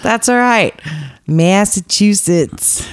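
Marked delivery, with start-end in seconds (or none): 1.3-2.9 drawn-out mock Massachusetts accent; lightly put-on, slow Massachusetts accent; bad Massachusetts accent. Host teasing about the state on the list, bad Massachusetts accent. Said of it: "terrible Massachusetts accent impersonation".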